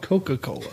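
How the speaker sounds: Coca-Cola with the middle "ka" sounded; all four syllables in Coca-Cola, co-ka-co-la; full pronunciation. Shown as a demonstration. Challenging a friend's pronunciation, full four-syllable Coca-Cola. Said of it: "Why do they call it".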